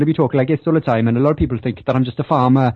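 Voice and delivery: natural Welsh lilt in everyday talk; Welsh accent. Shown as a demonstration. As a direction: slip into a broad Welsh accent. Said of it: "if I really wanted to talk in my normal accent".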